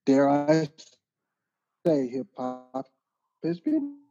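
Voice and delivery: ordinary delivery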